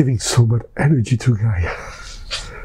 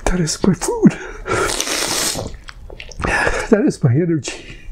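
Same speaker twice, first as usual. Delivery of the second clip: ecstatic whisper; 6 semitones higher, 3 dB quieter than usual. Real, not acted. Ecstatic devotion.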